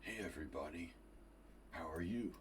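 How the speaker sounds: imitated rock singer's greeting, understated; impression of a rock singer. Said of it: that this is a singer the speaker can do.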